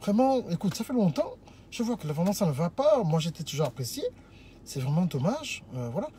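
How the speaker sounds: softly acted gentle regret; demonstrated poised suitor, subdued; calm, polite talk. Shown as a demonstration. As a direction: explain composedly, voice sinking toward the end. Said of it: "On parle bien".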